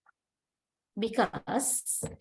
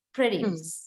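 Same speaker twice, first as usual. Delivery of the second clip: "Produce" with the effort on the first syllable; low-pitched "Produce", weight on PRO; noun stress on first syllable; 4 semitones lower than usual. Shown as a demonstration. Teacher repeats the noun example, first-syllable stress on "Produce". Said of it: "the articulatory effort is that".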